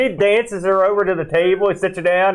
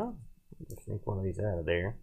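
quiet mutter; 8 semitones lower, 14 dB quieter than usual. Real, not acted. Sneaking candy quietly, far softer.

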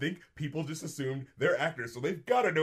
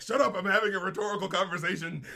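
higher-pitched mock outburst; retold shout; 5 semitones higher, faster than usual. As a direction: imitate an irritated man shutting someone up. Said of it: "shouts at him".

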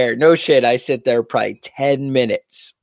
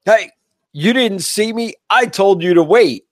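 higher, mock yelling guard voice; imitating angry guard; 7 semitones higher than usual. Guard scolding the driver at the gate, mock yell. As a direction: ham up the scolding sentry. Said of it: "And he's like".

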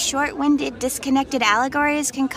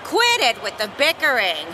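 shouted order; 2 semitones higher than usual. Acted. Judge shouts at the two fighters to stop. Judge stops bickering contestants.

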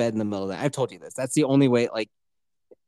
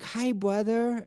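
put-on toddler voice; 7 semitones higher, 5 dB quieter, much slower than usual. Toddler daughter greets baby brother.

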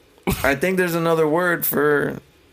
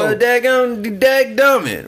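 slow, drawn-out daggone, daggummit; drawn-out hillbilly exclamation; hammed-up country exclamation; 3 semitones higher, 4 dB louder, slower than usual. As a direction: stretch it like an old farmer, slow. Repeats country exclamation slower.

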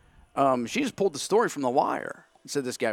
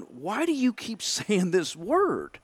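puzzled laugh; 7 semitones higher, slower than usual. Retold or imitated. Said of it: "I'm going".

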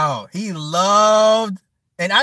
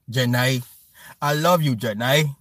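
mock Forrest Gump; 10 semitones lower than usual. Imitating lovesick Forrest Gump.

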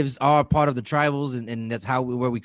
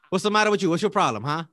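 mock Dominican accent; 4 semitones higher, faster than usual. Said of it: "too slow to be a Dominican".

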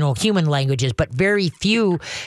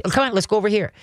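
cheerful redirect; 3 semitones higher, much faster than usual. Shown as a demonstration. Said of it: "And then redirect".

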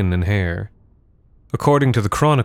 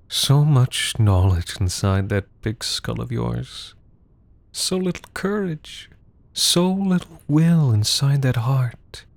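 menacing coaxing; 3 semitones higher than usual. Acted. Menacing embrace, coaxing the servant.

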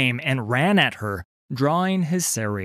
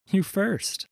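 high-voiced retort; high, unhurried female character voice; cool pirate woman; 10 semitones higher than usual. A narrator's reading. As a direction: counter him in a high, teasing voice. Heroine counters the corsair.

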